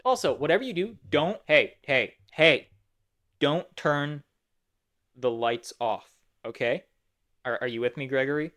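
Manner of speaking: jittery, rising to loud hey; a mild nervous panic, calling out; anxious Sun voice. Retold or imitated. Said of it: "he's like".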